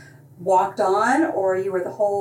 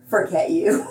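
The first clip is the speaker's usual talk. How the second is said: curt dismissal; 2 semitones lower than usual. Shown as a demonstration. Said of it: "Or it can mean".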